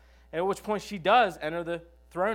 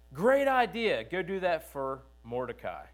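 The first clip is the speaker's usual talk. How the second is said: cheerful king; 2 semitones higher, 3 dB louder than usual. Retold or imitated. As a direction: deliver the twist with mock enthusiasm. King's ironic reply voiced.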